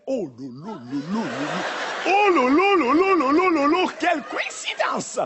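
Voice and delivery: surprised white woman imitation. Comedian mocking a surprised white woman, hammed-up squeal. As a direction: ham up a shocked woman's gasping exclamations. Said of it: "elles adorent faire".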